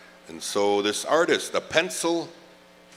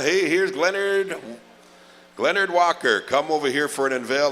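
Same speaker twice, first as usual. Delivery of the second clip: excited call; 5 semitones higher, 4 dB louder than usual. Acted. MC calling honoree up.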